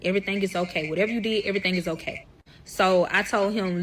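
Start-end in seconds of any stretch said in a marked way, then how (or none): 0.0-2.2 soothing. Retold or imitated. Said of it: "The only thing that I said to calm him down is".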